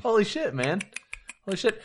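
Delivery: high, amazed exclamation; shocked and impressed. Real, not acted. Amazed reaction.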